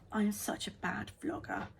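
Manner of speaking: whispered self-mocking aside; whispering. Real, not acted. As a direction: whisper it to yourself.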